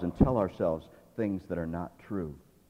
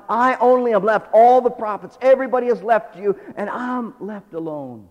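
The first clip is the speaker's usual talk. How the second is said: higher and louder, a building lament; rising complaint; 8 semitones higher, 10 dB louder than usual. Acted. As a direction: pour out the grievance louder and louder.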